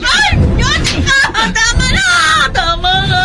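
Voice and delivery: wife pleading with a raging husband; desperate plea. Acted. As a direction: beg him to stop, near panic. Wife begs husband to stop.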